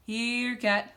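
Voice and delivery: loud, high call to the cat; shout. A narrator's reading. Captain luring Cat Kong from the plane, loud call. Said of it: "he shouted".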